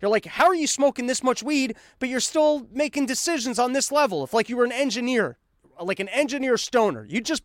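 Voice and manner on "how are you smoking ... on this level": higher-pitched, amazed questioning; acted incredulity, pitched up; curious disbelief. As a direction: quiz a stoner boss in bafflement. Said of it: "'cause we're all curious".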